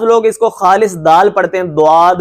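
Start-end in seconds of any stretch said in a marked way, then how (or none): 1.6-2.1 دواد said with a plain d sound, as the mistake; wrong dal-like dad. Shown as a demonstration. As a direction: show the wrong version of ضاد as دواد. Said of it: "یہ بھی غلط ہے۔".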